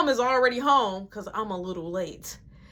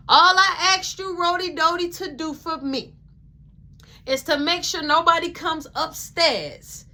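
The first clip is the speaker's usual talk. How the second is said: stern mom; 6 semitones higher than usual. Retold or imitated. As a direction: spell out the rules firmly. Mom giving stern instructions.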